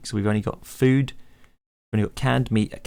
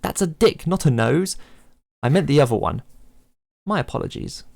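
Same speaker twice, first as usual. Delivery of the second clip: a hint of Locke; 4 semitones higher than usual. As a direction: complain as the kicked stranger. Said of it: "I should really come up with some voices".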